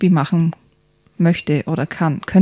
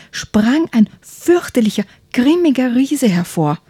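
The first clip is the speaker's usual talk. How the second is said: lively bedtime story narration, hushed at times; reading to children. A narrator's reading. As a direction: tell it like a bedtime story for kids. Reads a children's book aloud. (Kindergeschichte vorlesen)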